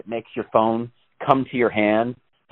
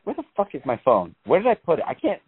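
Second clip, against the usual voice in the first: acted-out rising fluster, pitch climbing; mock phone panic; 4 semitones higher than usual. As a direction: play someone frantically hunting for a lost phone. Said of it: "it stresses you out, right? You get anxiety".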